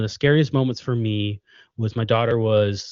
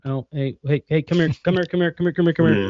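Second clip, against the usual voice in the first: put-on calling a kid over; 4 semitones higher than usual. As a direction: wave a wandering kid back, calling.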